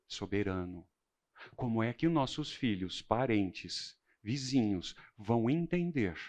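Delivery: hushed preaching. Acted. Quiet solemn opening of sermon.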